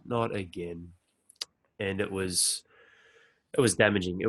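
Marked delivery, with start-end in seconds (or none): 0.0-0.8 hushed, fearful inner voice; soft whisper of dismay; whispered dread. Retold or imitated. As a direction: breathe it out like a quiet dread. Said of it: "and it's like".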